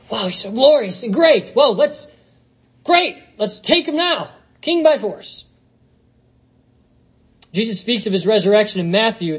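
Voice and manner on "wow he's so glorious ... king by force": rising, excited mock crowd voice; eager crowd. Preacher voices an eager crowd wanting Jesus king, excitedly rising. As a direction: gush like a starstruck crowd.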